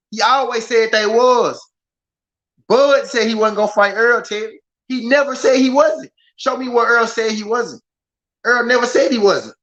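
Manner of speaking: high-pitched, emphatic correcting; worked-up, high-pitched protest; insistent rebuttal. Real, not acted. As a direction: argue it back, pitch pushed up. Heatedly correcting a chatter.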